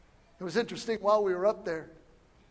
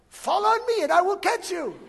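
high, loud, hammed-up call; imitated guide calling; 12 semitones higher, 11 dB louder than usual. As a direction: call it out as the overconfident little guide.

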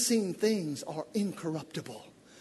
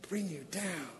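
soft echo; 3 semitones lower, 12 dB quieter than usual. Acted. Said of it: "instead of bring you down".

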